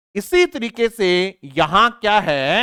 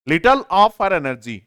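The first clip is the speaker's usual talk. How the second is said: slow dictation; much slower than usual. Shown as a demonstration. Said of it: "इस प्रकार से जब of होता है".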